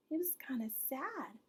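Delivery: quick whispered aside; fast whisper. Real, not acted. Reader whispers the answer to the child. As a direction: hush it out quickly.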